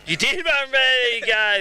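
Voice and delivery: high, surprised realization. Real, not acted. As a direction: caught out, pitch jumps up. Reporter corrected on Narrabeen win.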